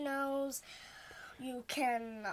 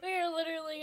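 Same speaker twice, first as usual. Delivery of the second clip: laughing; 3 semitones higher, much faster than usual. Real, not acted. Laughing despair at recording.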